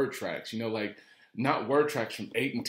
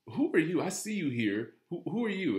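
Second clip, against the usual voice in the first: higher, pointed mock challenge; demanding stranger; 7 semitones higher than usual. Dealer group boss confronting the trainer, mock demanding. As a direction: quiz the stranger like he owns the place. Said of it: "and he says".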